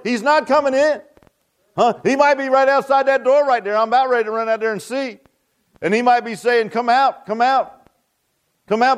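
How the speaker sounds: lively, insistent sermon delivery; preaching. Acted. Preacher urging the church that Jesus calls them out, preaching. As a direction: preach it with driving conviction.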